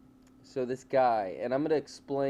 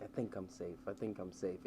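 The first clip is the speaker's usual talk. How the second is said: muttering to himself; 5 semitones lower, 12 dB quieter than usual. Retold or imitated. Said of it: "That's what you hear in the video".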